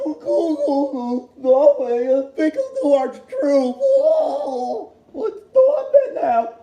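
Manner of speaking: cracking up while playing the flustered moderator; laughing mockery. Vlogger laughs at his own impression of the panicked moderator, high and squealing. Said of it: "It's like".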